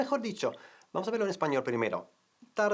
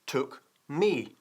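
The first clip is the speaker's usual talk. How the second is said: slow model phrase; much slower than usual. Shown as a demonstration. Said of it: "Empezamos con la primera parte".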